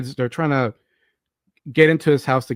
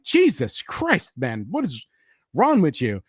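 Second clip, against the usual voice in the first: drawn-out exasperated "Jesus Christ"; aghast reaction; slower than usual. Retold or imitated. Reacting aghast to a character's outburst.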